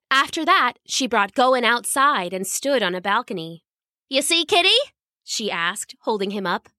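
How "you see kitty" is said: put-on high proud girl's voice; high sweet girl pointing out the view; girl showing off. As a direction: show off the view. Girl shows cat gardens.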